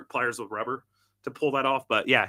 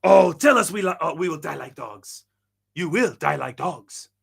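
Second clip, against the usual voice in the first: dramatic quote with a louder opening; quoted inflection, voiced out loud; imitated movie-line inflection; 4 dB louder than usual. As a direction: act out the line, drawing out the last phrase. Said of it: "That's the inflection he uses".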